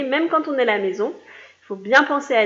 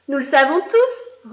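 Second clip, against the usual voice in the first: slow, louder sing-song together; chorus of pupils; 3 semitones higher, 6 dB louder than usual. Acted. Schoolchildren answer the grown-ups together in a slow chant. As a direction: chant it slowly like a class in unison. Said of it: "reprirent en chœur les écoliers".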